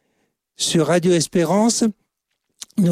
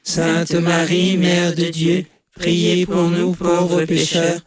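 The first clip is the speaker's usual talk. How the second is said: level, monotone rosary chant; choral prayer response. Real, not acted. Congregation answering the leader in the Hail Mary, monotone prayer. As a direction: draw the words out evenly, all together.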